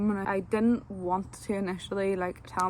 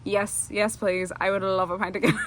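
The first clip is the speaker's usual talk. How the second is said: eager order; 4 dB louder than usual. Retold or imitated. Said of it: "I was like".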